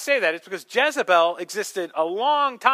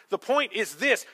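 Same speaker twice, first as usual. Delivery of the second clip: ordinary delivery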